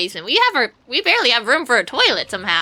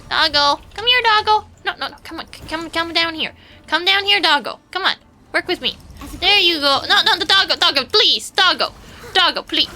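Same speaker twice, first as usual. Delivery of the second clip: high coaxing call, raised a little; calling a dog; 5 semitones higher than usual. Real, not acted. Streamer coaxing a game dog down to her, high call. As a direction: coax the dog over, pitch way up.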